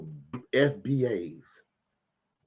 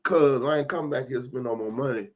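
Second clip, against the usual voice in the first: angry rant; 4 dB louder than usual. Retold or imitated. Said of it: "I'm like".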